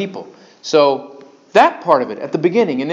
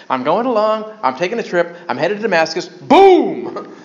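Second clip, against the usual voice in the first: sudden boom; 3 semitones higher than usual. Retold or imitated. Saul struck on the road.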